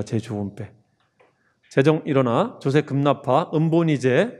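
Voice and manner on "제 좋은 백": much lower and softer, murmured 제 좋은 백; soft echo. Shown as a demonstration. Teacher echoing mnemonic to students, hushed and low. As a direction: repeat 제 좋은 백 under your breath.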